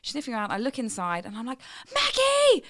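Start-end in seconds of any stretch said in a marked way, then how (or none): 1.9-2.6 high, loud telling-off to the dog; scolding the dog. Retold or imitated. Mother scolding the dog over the poo, high and loud. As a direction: scold the dog as if she made the mess.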